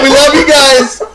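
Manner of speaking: slow, goofy clown voice, laughing; silly clown. Pretend. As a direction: ham it up like a clown. Hammed-up sign-off repeat.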